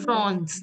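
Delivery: France with "on" for AN, like "frons"; rounded nasal vowel in France. Shown as a demonstration. Teacher corrects student on the AN, France as "frons". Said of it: "A N will be pronounced as on".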